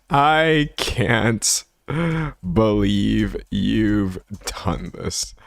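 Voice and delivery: drawn-out deadpan calm. Retold or imitated. Streamer re-quoting the meme, slow and calm. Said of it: "he just very calmly is just like".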